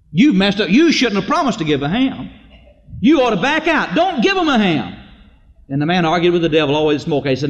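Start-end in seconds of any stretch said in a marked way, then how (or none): 0.1-4.9 urgent scolding, retold. Devil argues with the man.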